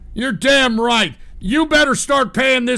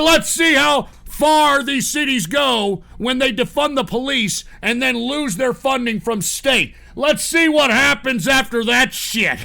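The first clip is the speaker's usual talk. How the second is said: taunting shout; 4 semitones higher than usual. Real, not acted. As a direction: dare those cities to try it. Taunting cities that defund.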